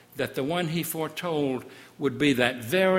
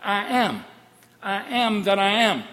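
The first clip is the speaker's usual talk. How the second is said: very slow, raised proclamation; God revealing his name to Moses; slow divine voice; 5 semitones higher, 7 dB louder than usual. Acted. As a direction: intone the holy name slowly. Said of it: "answers God".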